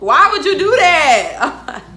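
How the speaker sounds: high, loud, drawn-out question; retold outraged demand. Storyteller confronting the man in her tale, loud outraged demand. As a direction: wail the question in reenacted outrage.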